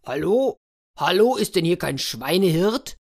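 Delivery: ruler calling into the woods. Acted. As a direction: call out searchingly, rising at the end. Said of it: "rief der Herrscher".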